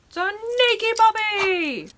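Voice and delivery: high, loud squeal to the dog; excited puppy talk. Real, not acted. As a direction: gush over your puppy in a very high voice. Excited cooing to pet dog.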